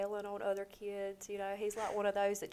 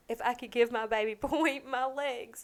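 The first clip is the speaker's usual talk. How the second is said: choked-up, louder and slightly higher; tearful; 3 semitones higher, 5 dB louder than usual. Real, not acted. Mother wishing she could help her son, tearful. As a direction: push it out through tears.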